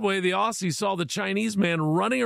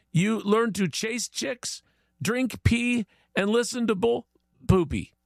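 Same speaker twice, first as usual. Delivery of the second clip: higher-pitched, deliberate list in mock Chinese accent; 6 semitones higher than usual. Chinese guy explains becoming true Australian, mock Chinese accent. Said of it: "Chinese guy says".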